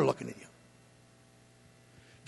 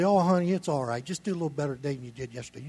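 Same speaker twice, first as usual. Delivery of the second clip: mock soothing; 6 dB quieter, faster than usual. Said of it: "I don't say".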